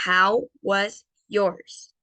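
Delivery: very slow, careful English model; slow model phrase. Shown as a demonstration. Teacher presenting a new phrase slowly. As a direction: draw each word out. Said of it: "teacher models new phrase".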